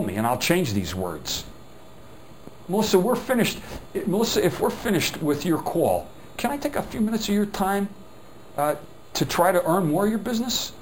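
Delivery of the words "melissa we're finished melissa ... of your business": the upsell line again, lifted four semitones or more; a lifted, friendly pitch on "Melissa, if we're finished with your call"; raised-pitch upsell demo. Shown as a demonstration. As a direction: ask it brighter and higher, addressed to Melissa. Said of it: "That's the words to use".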